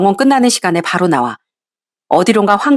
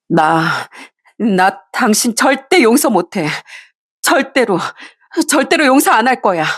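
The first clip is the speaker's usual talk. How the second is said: slow, then high, wounded outburst; pouring out rage; 3 semitones higher, slower than usual. Acted. Wife pouring out her fury at her husband, slow then high. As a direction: spit out every word of it. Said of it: "울분을 토해냈습니다".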